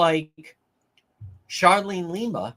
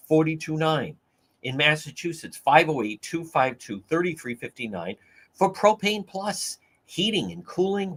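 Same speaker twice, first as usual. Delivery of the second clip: low-pitched, even ad delivery; radio sponsor read; 3 semitones lower than usual. Real, not acted. Reads a sponsor message.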